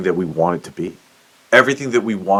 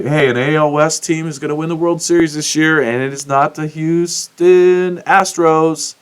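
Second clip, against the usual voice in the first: imagined tip-off; 6 semitones higher than usual. Retold or imitated. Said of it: "Someone would have told me".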